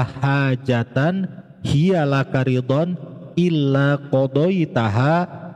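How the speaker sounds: slow, measured recitation with drawn-out long vowels; Arabic prayer recitation. Shown as a demonstration. Teacher models the hajat prayer for listeners, slow recitation. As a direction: recite the prayer phrase by phrase, lengthening the syllables.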